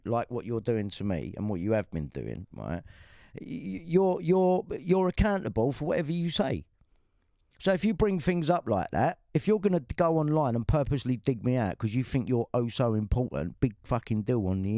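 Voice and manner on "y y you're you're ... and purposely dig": heated. Real, not acted. Heated online row, accusing.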